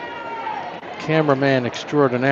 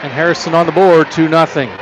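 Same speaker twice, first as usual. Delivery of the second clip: live play-by-play. Acted.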